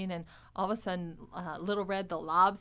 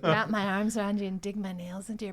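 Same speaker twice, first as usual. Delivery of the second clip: laughing Mark. Retold or imitated. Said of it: "He's like".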